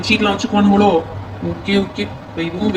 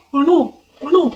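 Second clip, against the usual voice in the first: greedy excited gasp; 5 semitones higher, much slower than usual. Acted. Thief finds hidden cash.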